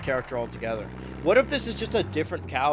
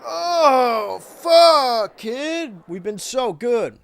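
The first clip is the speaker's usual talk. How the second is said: higher, louder sassy diva voice; over-the-top sassy sing-song taunt, much higher; funky character voice; 11 semitones higher, 6 dB louder, slower than usual. Acted. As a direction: strut through it like a cartoon funk diva.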